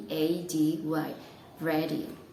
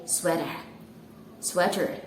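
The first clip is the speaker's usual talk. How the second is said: "sweater" with an r at the end, in an American accent; American English; 2 semitones lower than usual. Shown as a demonstration. Teacher shows the American English "sweater". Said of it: "for American, you say".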